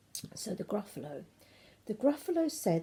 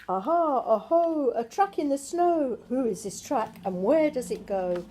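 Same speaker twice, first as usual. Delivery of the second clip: excited discovery; 3 semitones higher, 6 dB louder than usual. Acted. Child finds track.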